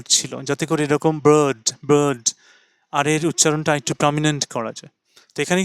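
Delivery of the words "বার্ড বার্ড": American accent. Shown as a demonstration. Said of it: "অতিরিক্ত আর এর ব্যবহার".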